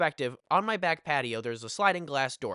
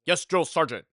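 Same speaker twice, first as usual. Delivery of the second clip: punchy, raised-voice mock recruit reply; imitated yelling; 2 semitones higher, 5 dB louder than usual. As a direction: imitate a friend yelling to his sergeant. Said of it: "just yelling".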